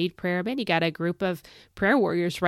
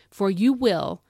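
"will" given firm emphasis; stress on will; 3 dB louder, slower than usual. Shown as a demonstration. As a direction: lean hard on the word "will". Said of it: "I gotta really stress that word".

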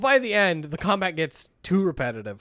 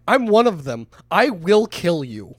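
menacing threat; 5 dB louder than usual. Acted. Acted threat to the scientist.

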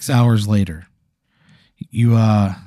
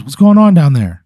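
cop calling out; 4 semitones higher, 6 dB louder than usual. Retold or imitated.

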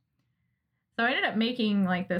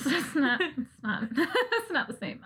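words breaking up with laughter, slow and higher; laughing; 6 semitones higher, slower than usual. Real, not acted. To her cohost about stress baking, laughing through it.

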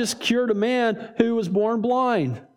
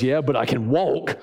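laughing retort; 8 semitones lower than usual. Retold or imitated. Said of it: "smacks him upside the head and goes".

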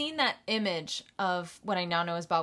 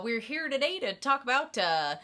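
lightly voiced easygoing horror host; imitating a regular-guy presenter; mild-mannered host; 3 semitones higher than usual. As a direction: introduce it with no vampire affectation, hesitating. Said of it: "the very definition of mild-mannered man".

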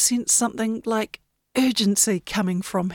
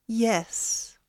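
whisper; 7 dB quieter than usual. Acted. Wind's silent mind reply.

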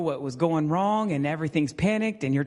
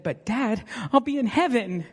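put-on higher, innocent child voice; imitating little daughter; 7 semitones higher than usual. Preacher quoting his daughter to the church, higher child voice. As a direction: play the little girl making her point. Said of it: "And she said".

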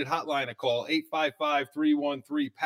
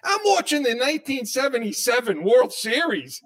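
imitating his cohost; 9 semitones higher, 6 dB louder than usual. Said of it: "He says to me".

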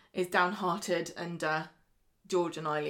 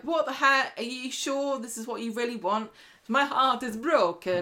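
higher, mildly melodramatic imitation; mock heartbroken Isabella; 5 semitones higher than usual. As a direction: play up the wounded disbelief lightly. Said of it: "Isabella's like".

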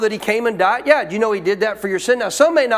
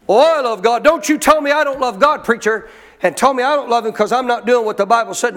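mock indignant objection; 2 semitones higher, 3 dB louder than usual. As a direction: protest hotly, imitating an affronted believer. Acts out an offended churchgoer objecting.

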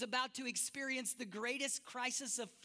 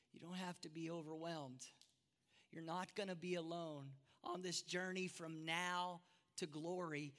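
Jesus reassuring; 3 semitones lower than usual. Acted. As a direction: speak gently and low, like easing a frightened friend. Jesus comforting Thomas.

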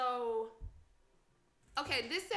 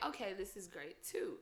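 mock enthusiasm; 6 semitones lower, 11 dB quieter than usual. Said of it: "I'm like".

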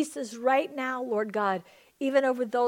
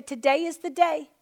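louder, emphatic declaration; said like you mean it; 4 semitones higher, 5 dB louder than usual. Shown as a demonstration. Pastor modelling the words for the congregation, emphatic and loud. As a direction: proclaim it with conviction. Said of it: "Say it like you mean it".

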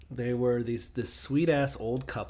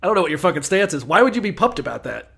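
exasperated; 6 semitones higher, 10 dB louder than usual. Retold or imitated. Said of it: "I was like".

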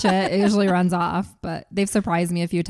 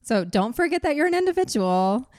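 higher, lively, with a rising tune; expressive reading; 7 semitones higher than usual. Shown as a demonstration. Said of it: "That sounds less robotic".

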